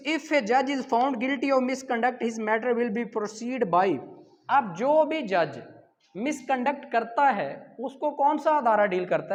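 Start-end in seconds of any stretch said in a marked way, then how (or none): 0.1-3.9 reading out the question. Shown as a demonstration. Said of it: "उसके बाद है हमारे पास क्वेश्चन नंबर सिक्स".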